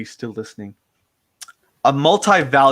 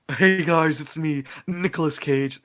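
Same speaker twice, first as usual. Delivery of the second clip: The speaker doing Nicolas Cage; 3 semitones higher, 3 dB quieter, slower than usual. Retold or imitated. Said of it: "That's him doing Nicolas Cage".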